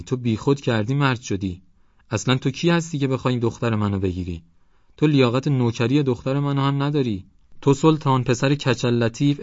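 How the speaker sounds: high, loud outraged tirade; shrieking. A narrator's reading. Mother shrieking at the young man, then calling on God, outraged. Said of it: "جیغ زد".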